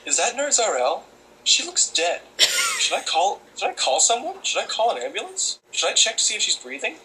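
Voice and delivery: high, anxious fussing; hammed-up alarmed bus passenger; panicked stranger. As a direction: imitate a worried onlooker. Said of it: "I thought to myself".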